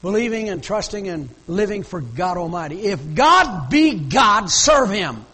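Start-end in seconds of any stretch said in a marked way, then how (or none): 2.8-5.2 loud, very slow, drawn-out challenge; preaching at full force. Real, not acted. Preacher challenges the congregation to choose God, loud and slow. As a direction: hammer each word home from the pulpit.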